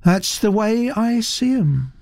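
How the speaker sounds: put-on high, placid young woman. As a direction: answer criticism with untroubled calm. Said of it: "said Naomi placidly".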